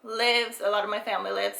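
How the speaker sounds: short of breath while talking; winded, catching breath between words. Real, not acted. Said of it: "Sorry, I'm out of breath".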